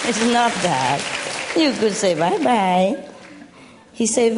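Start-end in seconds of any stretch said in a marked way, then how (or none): 1.6-3.0 slow demo. Shown as a demonstration. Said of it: "slow demo to bird".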